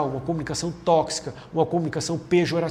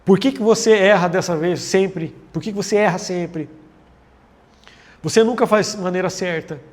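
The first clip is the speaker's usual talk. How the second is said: blaming accusation; 3 dB louder than usual. Shown as a demonstration. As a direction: throw the blame at them. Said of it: "eu não posso fazer forma de acusação".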